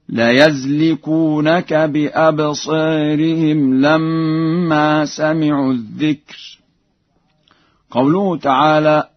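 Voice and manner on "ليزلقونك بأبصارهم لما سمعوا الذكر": slow, higher chant, "ليزلقونك" as "la-yazliqunaka"; Warsh fatha on ya. Shown as a demonstration. Teacher demonstrating Warsh's reading, "ليزلقونك" with ya, not yu. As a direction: open the y of "ليزلقونك" with a short a. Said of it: "بفتح الياء في لفظ يزلقونك هكذا".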